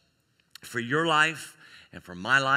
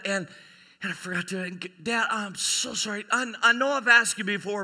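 halting, higher-pitched mock remorse; acted guilty confession; 5 semitones higher than usual. Daughter confesses lingering guilt to dad, mildly overwrought. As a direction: stumble through an overwrought apology.

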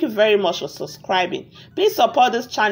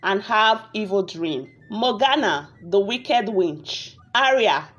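story narration. A narrator's reading. Narrator tells viewers a tale of a wicked witch, measured storytelling. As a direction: narrate a village fairy tale, unhurried.

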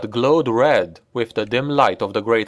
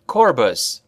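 commanding shout; 2 semitones higher than usual. A narrator's reading. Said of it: "The nobleman's shout froze the vampire".

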